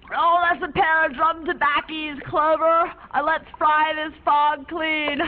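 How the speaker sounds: a light impression of a laid-back old rager, slowing at the end; hint of a grizzled boat captain, drawn out on the last line; imitating a raging old fisherman. Clove imitates the fisherman for her friend, lightly voiced. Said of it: "He talks like this".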